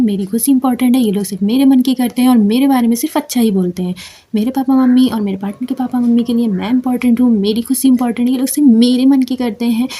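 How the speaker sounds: fast robotic recitation without feeling; rattled off quickly. Shown as a demonstration. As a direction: rattle through the words, no emotion. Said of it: "और फटाफट से बोलना है". (फटाफट robotic अंदाज़ में)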